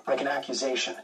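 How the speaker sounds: ordinary delivery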